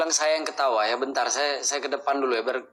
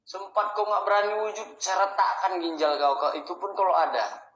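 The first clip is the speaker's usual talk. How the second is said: high, loud taunt at the spirit; defiant challenge; 8 semitones higher, 4 dB louder than usual. Acted. Ghost hunter daring the spirit to appear, loud taunt. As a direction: dare the ghost to show itself.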